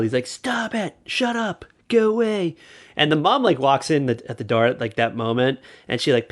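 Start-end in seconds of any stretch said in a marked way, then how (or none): 0.3-2.6 put-on high, strained yell at a crying baby; exhausted teen yelling at the baby to stop; mock yelling at baby. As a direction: snap at the screaming infant, pitched way up. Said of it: "yelling at the child".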